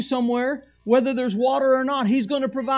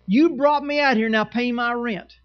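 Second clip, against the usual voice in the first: mock demand. Pastor mimicking a congregant who wants rent money, mock whine. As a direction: play a pushy member demanding rent money.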